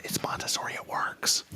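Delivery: hushed whisper. Shown as a demonstration. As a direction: say it under your breath. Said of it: "I'm gonna whisper it".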